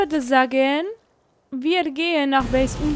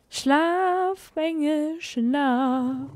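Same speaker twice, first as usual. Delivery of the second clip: soft lullaby coo; 4 dB quieter, much slower than usual. Acted. Lulling the tamed dino asleep.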